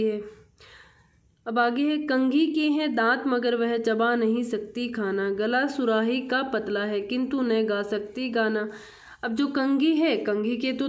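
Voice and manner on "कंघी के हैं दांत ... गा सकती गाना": measured classroom verse reading; poem recitation. Acted. Teacher reads the Hindi poem to children, poem recitation. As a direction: read the verse out clearly, line by line.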